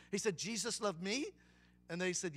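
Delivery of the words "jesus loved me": soft question in imitated Vietnamese accent. Buddhist restaurant owner asks teenagers, Vietnamese accent. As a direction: ask with a rising Vietnamese-accented lilt. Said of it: "try to do a Vietnamese accent".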